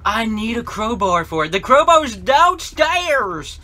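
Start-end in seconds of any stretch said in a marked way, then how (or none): 1.5-3.6 panicked exclaim. Real, not acted. Realizes in panic.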